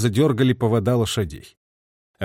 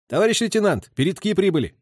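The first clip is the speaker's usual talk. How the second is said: higher, brisk soldier's report; sergeant's report; 7 semitones higher than usual. A narrator's reading. Sergeant reporting arrival to his lieutenant, brisk. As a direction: report smartly to the officer.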